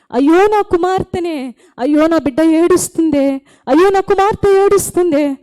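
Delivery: put-on rising, pleading lament over a lost child; God lamenting. God grieving over his wandering child, rising lament.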